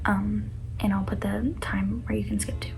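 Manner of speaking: soft, hushed trigger warning; embarrassed reading aloud. Real, not acted. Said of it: "this is gonna be a hard read for me".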